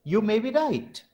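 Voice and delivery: YOU MAY BE RIGHT pitched high in an agreeing tune; high arc over MAY, then down toward RIGHT; falling-rising agreement. Shown as a demonstration.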